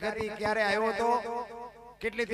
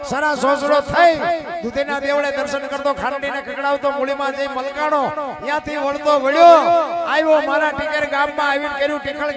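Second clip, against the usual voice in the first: louder rhythmic verse, driving each line home; louder, rhythmic folk-verse chant rolling from town to town; folk poem recitation; 3 dB louder than usual. Acted. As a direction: declaim the earthquake ballad to the crowd. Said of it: "એની તમને યાદી કરાવું".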